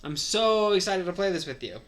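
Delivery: can't wait to play; excited. Acted. Chris tells Lucario he wants to play together, excited. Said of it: "since you were this excited".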